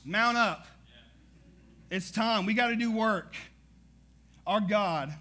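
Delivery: rising pulpit fervor; full-force preaching. Acted. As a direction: build the congregation up, fired up.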